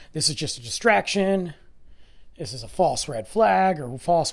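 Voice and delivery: insistent conspiracy rant, lightly voiced; conspiracy theorist. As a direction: push it like a suspicious theorist. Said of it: "conspiracy theorists".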